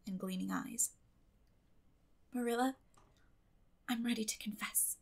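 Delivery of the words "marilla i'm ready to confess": soft, near-whispered admission; hushed confession. A narrator's reading. Girl confesses to her guardian, hushed. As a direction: whisper it, resolute.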